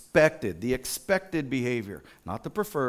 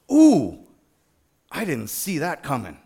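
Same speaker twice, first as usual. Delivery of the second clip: pleasant surprise; 6 dB louder than usual. Acted. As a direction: act out being caught pleasantly off guard. Imagined reactions to surprises.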